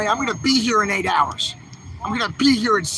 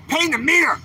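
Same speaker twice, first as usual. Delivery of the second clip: indignant exclamation; 7 semitones higher than usual. Real, not acted. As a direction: throw the words back in disbelief. Indignant repeat of his point.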